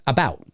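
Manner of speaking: "about" with a wide open "ow"; American vowel in about. Shown as a demonstration. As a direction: say about as a-BOWT. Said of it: "Whereas in the States, it's".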